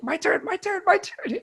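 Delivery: very high, squeaky eager imitation; David Arquette. Wrestling fan begging Sting for a punch, mock eager. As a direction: beg excitedly in a tiny high voice. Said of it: "he, he's like".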